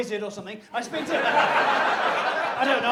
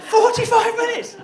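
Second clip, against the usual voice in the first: laughing; 12 semitones higher, 10 dB louder than usual. Real, not acted.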